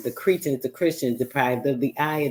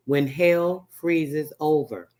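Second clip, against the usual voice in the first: slow savoring; 2 semitones higher, much slower than usual. Shown as a demonstration. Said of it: "savoring the saying".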